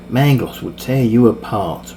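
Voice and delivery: slow, firm defiance; defiant. Acted. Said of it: "Ray said defiantly".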